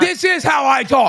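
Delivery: mad. Real, not acted. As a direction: insist on it angrily. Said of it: "When I'm mad".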